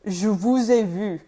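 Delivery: 'vous'는 ou로, 'vu'는 u로 구분해 천천히; 두 모음을 또렷이 갈라 말하기; French sentence demo. Shown as a demonstration. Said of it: "with the formal vous".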